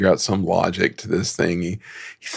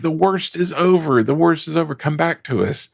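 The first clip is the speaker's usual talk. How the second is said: family pleading; 7 semitones higher than usual. Retold or imitated. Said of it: "they're like".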